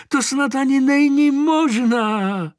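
put-on high, astonished old lady; old woman marvels at the horse, high and amazed; old woman's voice. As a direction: pitch up into a fussy old woman's voice. Mrs Herncová voiced by reader.

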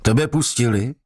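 can't believe he's free; surprised. A narrator's reading. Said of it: "ozval se překvapeně". (známý překvapeně)

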